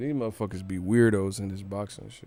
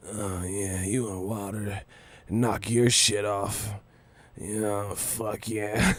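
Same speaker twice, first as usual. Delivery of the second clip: mock lustful fan; 2 semitones lower, 5 dB quieter, slower than usual. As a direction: murmur it like a turned-on fan, as a joke. Mocks fans lusting over boxer.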